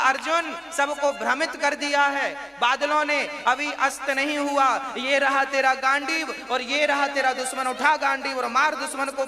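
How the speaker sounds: urgent command. Acted. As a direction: rouse a warrior to strike at once. Acts Bhagwan urging Arjun to strike.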